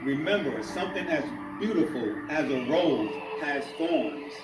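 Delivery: measured spoken-word delivery with pauses between phrases; spoken-word poem in rhythmic phrases; poetry recital. Acted. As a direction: perform the poem, lifting each refrain then letting the phrase fall. Reads his poem aloud.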